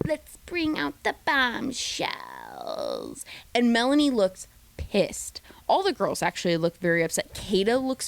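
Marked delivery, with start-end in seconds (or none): 0.1-3.2 slow, drawn-out host announcement. Retold or imitated. Imitating Ariana introducing the bombshells, slow host voice. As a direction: reveal it with drama. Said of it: "Ariana's like".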